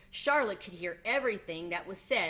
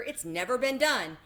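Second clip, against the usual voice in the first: fair announcer; 5 semitones higher, 6 dB louder than usual. A narrator's reading. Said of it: "said the loudspeaker".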